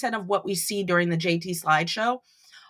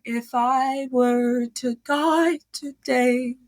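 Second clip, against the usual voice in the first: robot voice; 3 semitones higher, 3 dB louder, much slower than usual. Retold or imitated. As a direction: imitate a singer through a fan. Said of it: "it makes her voice".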